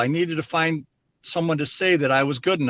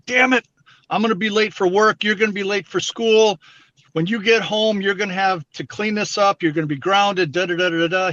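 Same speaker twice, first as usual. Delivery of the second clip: retold yelling; 4 semitones higher than usual. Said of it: "My dad comes screaming at me".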